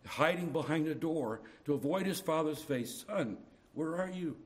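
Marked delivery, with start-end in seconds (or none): 3.0-4.4 loving father. Acted. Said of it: "a loving father's question to a naughty little boy".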